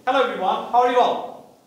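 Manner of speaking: open, assured hello to the room; lightly confident welcome; confident greeting. Shown as a demonstration. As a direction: greet everyone like you own the stage. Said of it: "It hits different".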